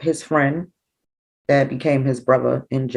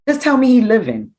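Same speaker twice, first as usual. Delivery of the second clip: retold tearful plea; 7 semitones higher, 4 dB louder than usual. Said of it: "I started crying and I said".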